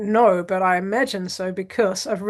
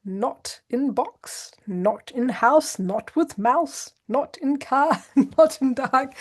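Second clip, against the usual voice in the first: put-on reading like a child; 3 semitones higher, slower than usual. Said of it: "he was like".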